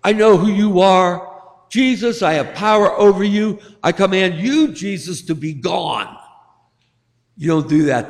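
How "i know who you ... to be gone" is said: devil claiming authority. Acted. Devil commanding Jesus to be gone, mildly acted authority. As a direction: issue a command as if you hold power. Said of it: "the devil's saying".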